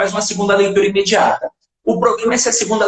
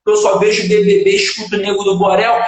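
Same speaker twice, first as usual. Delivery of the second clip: mock despairing student; 3 semitones higher than usual. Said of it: "Aí o cara vai falar assim".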